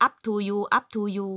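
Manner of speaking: slowly, spelling out the English; slow English gloss. Shown as a demonstration. Explaining the phrase to Thai wives, said slow. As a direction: lay out each word slowly. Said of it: "ก็คือ".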